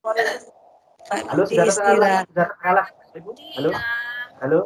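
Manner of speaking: choppy audio dropping out; radio breaking up. Real, not acted. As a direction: voice breaking up on a bad connection. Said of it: "Suaranya Pak Rudi hilang".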